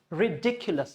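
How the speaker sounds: ridiculous as ri-DIK-yu-lus; ridiculous with a firm middle DIK; stressed DIC in ridiculous. Shown as a demonstration. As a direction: make "dik" clear in ridiculous. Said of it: "dick should be clear".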